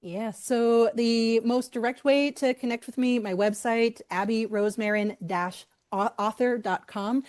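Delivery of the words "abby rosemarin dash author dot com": Boston accent, "author" with the r dropped. Real, not acted. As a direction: say "author" the Boston way, almost "Arthur". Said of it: "My Boston accent always slips out with the word".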